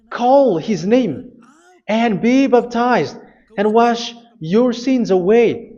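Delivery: high, drawn-out call to the congregation; preached command. Real, not acted. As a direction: proclaim it word by word as an order. Preacher reads verse as a command.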